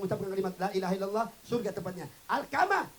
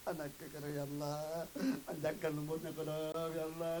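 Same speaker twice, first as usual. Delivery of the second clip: hushed prayer; 2 semitones lower, 7 dB quieter than usual. Acted. Mother praying softly over her sick child, hushed. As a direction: murmur the plea like a worried mother.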